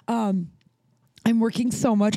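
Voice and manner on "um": barely voiced whisper; hoarse whisper with no voice; losing voice. Real, not acted. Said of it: "and now I have no voice".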